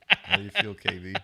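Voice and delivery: mocking shout at K V; loud taunt. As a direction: rub it in, calling him out by name. Taunting the player who dropped it.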